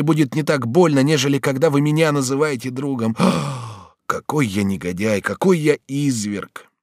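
high, agitated voice berating himself; anguished self-reproach, pitch jumping high; remorseful Bonifas. Acted. Bonifas begs Batilda not to call him friend, remorseful.

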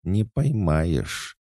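high, very slow singsong taunt; thin little voice. A narrator's reading. Small remembered voice taunts him to catch her, thin and high. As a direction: draw it out high and teasing. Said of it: "прошептал тонкий голосок из моих воспоминаний".

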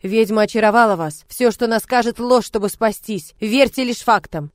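loud and slowing to hammer it in; insist, word by word; forceful warning. Acted. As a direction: swordsman urging the lord not to trust her. Rent urging the lord.

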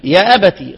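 يا أبتي said "ya abati"; final kasra. Shown as a demonstration. Teacher giving all readers' form, "ya abati" with final i. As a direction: close يا أبتي on a short ti. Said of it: "لكل القراء يقرؤون إيه؟".

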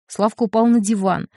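ordinary delivery, nothing marked

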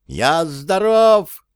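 shrill squeal, high and drawn out. A narrator's reading. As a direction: squeal it from up under the ceiling. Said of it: "заверещал он сверху". (верещит сверху, высоко и протяжно)

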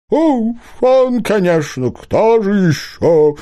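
high owl voice, drawn out at the end; hooting owl. A narrator's reading. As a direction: hoot it out like a wise owl. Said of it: "проухала сова".

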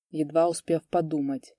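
ordinary delivery

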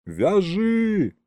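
high, agitated order; excited shout. A narrator's reading. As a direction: call it out, jumping with excitement. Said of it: "кричал Колымдай, подпрыгивая от волнения".

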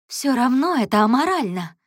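high, loud, firm insistence; firm, unyielding. A narrator's reading. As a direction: stand your ground. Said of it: "не дрогнула она". (твёрдо и громко, не уступая)

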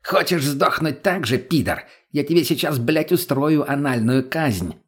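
drawn-out furious threat; yelling in his face. Acted. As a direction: threaten him right in the face. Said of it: "заорал прямо в лицо".

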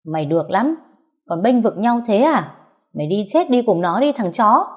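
furious. Acted.

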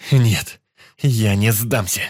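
loud, slowed growl through tears; a drowning man growls that he won't give up; growled defiance. Acted. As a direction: snarl it, refusing to give up. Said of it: "зарычал я".

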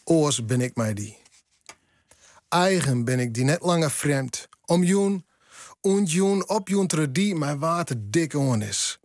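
reading the poem in Frisian, slow and measured; Frisian poem recital. Shown as a demonstration. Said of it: "En in het Fries gaat dat zo". (gedicht voorgedragen in het Fries)

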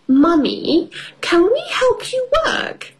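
put-on very high eager child voice; little girl voice. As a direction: ask eagerly like a small girl. Peppa voiced in story.

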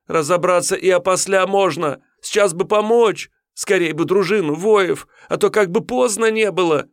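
высоко, протяжно, с мольбой; упасть на колени и молить; взмолился. Acted. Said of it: "Анисим взмолился". (Анисим молит тиуна на коленях)

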